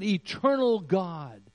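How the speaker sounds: booming slow "Almighty God"; grand prayer address. Retold or imitated. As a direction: proclaim it like a formal prayer. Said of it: "Or he could have said".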